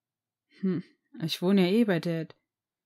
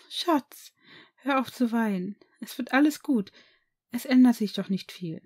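higher, gentle soothing; soothing mother; 3 semitones higher than usual. Acted. Mother stroking her crying son's hair, soothing. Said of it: "Sacht strich sie ihm über die blonden Haare".

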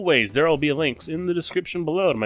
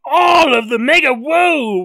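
high, slow, even more awed; bigger stunned amazement; 7 semitones higher, 6 dB louder than usual. Real, not acted. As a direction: top it, dazed.

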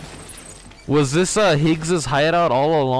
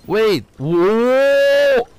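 higher, louder sudden exclaim; startled whoa; 10 semitones higher, 6 dB louder than usual. Real, not acted. Gamer startled by a discovery, loud exclaim. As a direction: cry out as something jumps at you.

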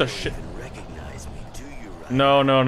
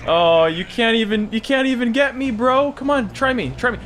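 high-pitched cocky jeer; gleeful taunting; 8 semitones higher than usual. Pretend. Player dodging the enemy, high taunting. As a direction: taunt him in a high, teasing voice.

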